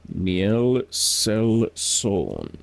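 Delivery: Niel Selson drawn out syllable by syllable, very slow; first attempt at the name; slow careful try. Shown as a demonstration. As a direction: sound out Niel Selson slowly. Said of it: "definitely not cut out to learn languages".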